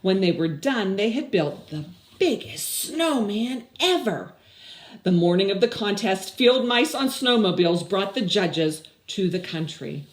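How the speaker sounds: lively, even storybook read; reading to children. Acted. Teacher reads the story aloud to her class, lively storybook voice. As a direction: read it out like a story to little kids.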